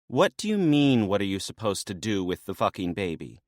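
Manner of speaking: lightly voiced woman echoing him in disbelief; incredulous maenad. Lalaya mocking Dionysus's question, lightly voiced.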